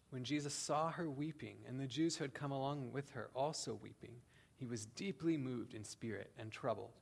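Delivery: measured, solemn Bible reading; scripture reading. Acted. Reads John 11 aloud.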